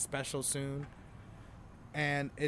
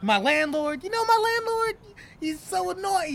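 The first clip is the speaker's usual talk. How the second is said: much higher, louder, breezy like nothing's wrong; fake cheery stage voice; 9 dB louder than usual. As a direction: sell the complaint as if it's nothing. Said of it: "present it like nothing's bothering you".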